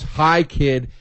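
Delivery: Jerry Lewis. Retold or imitated. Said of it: "puts on that fucking Nutty Professor voice and".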